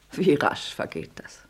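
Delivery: hushed, pressing whisper; woman whispering a warning to her lover; urgent whisper. Acted. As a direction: whisper it close and insistent. Arkadina urges Trigorin.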